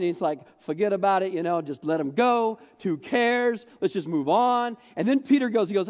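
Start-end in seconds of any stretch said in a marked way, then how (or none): 0.6-4.8 Italian. Retold or imitated. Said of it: "goes a little bit Italian".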